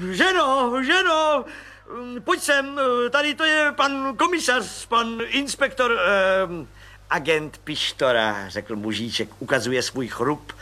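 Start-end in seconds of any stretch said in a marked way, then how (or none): 0.1-0.7 much higher call to the wife; higher call to his wife. Acted. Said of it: "calling his wife". 0.8-1.4 higher, louder second call to the wife; louder, higher call to his wife. Acted. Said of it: "calling his wife again". 2.2-8.5 much higher, gushing with relief; lavish praise on the little man; gushing, overjoyed colonel. Acted. Colonel introduces Pištora.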